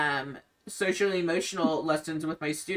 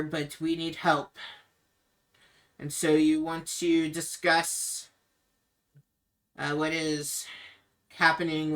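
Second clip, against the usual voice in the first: Ismark, grave and pleading. Acted. Ismark pleads with the group to take his sister away. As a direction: ask strangers for help, weighed down. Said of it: "he says".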